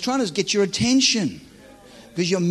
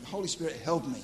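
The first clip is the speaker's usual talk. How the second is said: soft aside prayer; quiet plea; 10 dB quieter, faster than usual. Acted. Preacher stalling for time, quiet plea.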